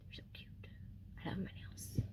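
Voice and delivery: playful whisper; hushed, pleased whisper about her nails. Real, not acted. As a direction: whisper it like a secret. Showing off nails to viewers.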